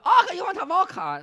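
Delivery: high, loud mock Asian-accented barber. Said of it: "and she go".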